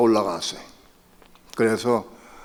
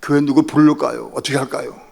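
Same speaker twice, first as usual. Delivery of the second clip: fervent prayer; 3 semitones higher, 7 dB louder than usual. Retold or imitated. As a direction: cry out to God in earnest. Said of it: "물었어요". (간절히 부르짖는 기도)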